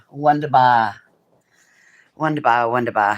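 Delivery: loud theatrical mock-German cheer; hammy stage actor. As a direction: savour each word like a ham actor. Playful mock-German exclamation.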